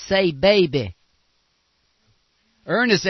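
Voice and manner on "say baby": imitating a preacher. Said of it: "that one that says".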